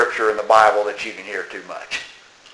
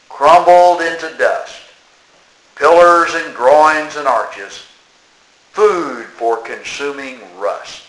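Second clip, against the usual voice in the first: slow, measured verse with long pauses; poem recitation; slower than usual. Acted. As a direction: recite line by line, drawing out the line endings.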